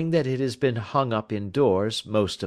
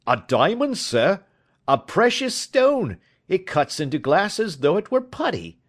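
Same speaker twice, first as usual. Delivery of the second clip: excited; 9 semitones higher, 4 dB louder than usual. A narrator's reading. Commissionaire marvels at the stone.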